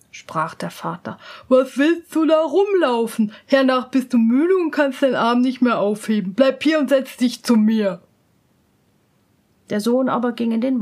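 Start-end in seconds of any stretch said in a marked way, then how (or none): 1.5-8.0 lightly voiced disapproving father; a touch of fatherly reproach; scolding father. Father telling his eager son to stay, lightly scolding.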